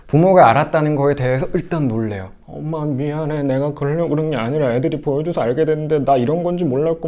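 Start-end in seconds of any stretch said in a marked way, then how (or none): 2.5-7.1 put-on upset child. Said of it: "막 이렇게 막 서러워하고 막 당황해하고".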